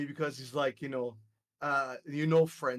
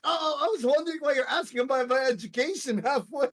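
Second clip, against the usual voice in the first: retold realization; 7 semitones higher, 3 dB louder, faster than usual. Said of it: "I'm like".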